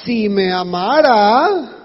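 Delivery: slow, sulky wounded sigh of a line; self-pitying lament. Retold or imitated. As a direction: say it like a hurt lover keeping score. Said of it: "metemos frases como".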